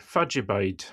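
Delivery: "Fadjabide" run together as one word in Doric, fad-ja-bide; "Fadjabide" in a light Aberdeen accent, all one word; Aberdonian dialect. Shown as a demonstration. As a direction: say "Fadjabide" quick and clipped like a local from Aberdeen. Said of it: "you would say".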